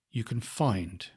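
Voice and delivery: "find" said softly with a falling tone; variation on find. Shown as a demonstration. Coach tries another variation on one word, "find" falling. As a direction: let "find" drop away and stop there. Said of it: "even on an individual word, you can try different variations".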